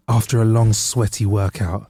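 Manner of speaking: sweaty workout dragged out slowly and suggestively. Pretend. Host retaking the water advert line with a slow sultry tease. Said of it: "I got a little bit carried away".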